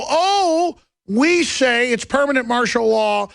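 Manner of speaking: high, drawn-out mocking quote; mock hysteria. Critics exaggerating his martial law claim, mocking.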